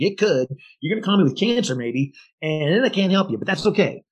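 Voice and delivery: smart aleck. Acted. Agent needling a client who won't budge, smart aleck. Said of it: "use one more smart aleck answer".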